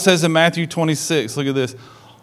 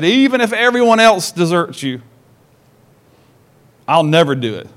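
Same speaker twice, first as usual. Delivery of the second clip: forceful declaration; 2 semitones higher than usual. Acted. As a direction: declare it forcefully, like Peter swearing loyalty. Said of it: "Declare is, is forceful".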